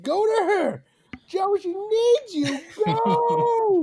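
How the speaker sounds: high, drawn-out urgent yell. Retold or imitated. TV viewer yelling at Joe to go to her, high urgent yelling. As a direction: yell it desperately at someone too far off. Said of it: "I'm yelling, I'm like".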